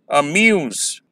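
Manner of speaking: अम्यूज with light अ, long falling म्यूज; natural second-syllable stress. Shown as a demonstration. Teacher repeats the example for students, natural stress. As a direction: put the weight of अम्यूज on म्यूज. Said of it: "ऐसे हम इसे naturally pronounce करते हैं".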